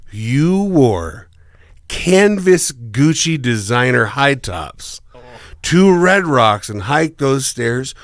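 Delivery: slow, drawn-out mock disbelief; retold incredulity. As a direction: spell out the absurdity, slowly. Retold scolding of dad.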